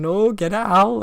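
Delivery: high, loud panicked mock yell; retold screaming. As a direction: imitate a friend screaming to drive moths off. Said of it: "like, screaming".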